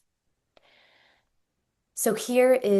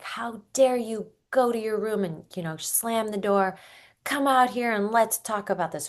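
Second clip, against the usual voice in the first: angry parent; 4 semitones higher than usual. Retold or imitated. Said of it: "And you might be like".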